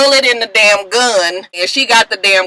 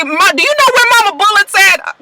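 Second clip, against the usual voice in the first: put-on high kid voice asking his mama; child's voice; 11 semitones higher, faster than usual. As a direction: pitch it up like a small boy asking. Kid Lucius asks his mother.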